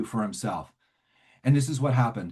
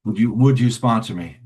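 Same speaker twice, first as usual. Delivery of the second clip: casual, hesitant slangy request; streetwise casual pitch; 4 dB louder than usual. Retold or imitated. Newcomer asks a man to sponsor him, casual and hedging. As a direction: hedge the big ask with street talk. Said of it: "that's the way I talk".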